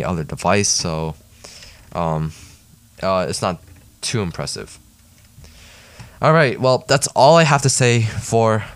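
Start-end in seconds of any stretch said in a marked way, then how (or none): 6.2-8.6 a little winded from talking; short of breath after a long read. Real, not acted. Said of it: "Oh, I'm already out of breath".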